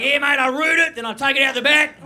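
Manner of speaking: lightly voiced loud bloke; torso buyer. Imagined buyer tells his mate his plan, lightly voiced bragging. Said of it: "Who's fucking buying that?".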